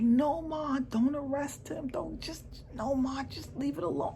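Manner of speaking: high-pitched imitation of a pleading boy; pleading son. Son pleading with his mother, retold.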